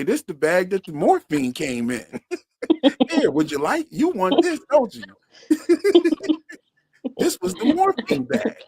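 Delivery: high, teasing tempter voice; tempting devilish whisper. Retold or imitated. Mock offering morphine bag.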